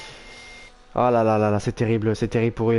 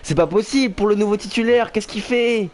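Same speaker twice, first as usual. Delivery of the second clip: shocked disbelief; 6 semitones higher than usual. Real, not acted. Crash live on track.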